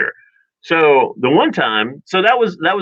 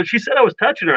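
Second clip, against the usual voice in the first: high-pitched mock indignation; protesting kid; 9 semitones higher, faster than usual. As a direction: imitate a kid arguing his case to Mom. Acted childhood squabble.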